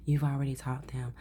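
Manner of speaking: flat robotic monotone. Real, not acted. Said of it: "Oh, with the robotic voice".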